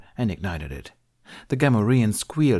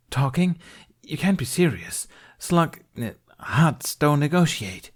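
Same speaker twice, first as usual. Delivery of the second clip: incredulous; 7 semitones higher than usual. Acted. Prisoner incredulous at plan.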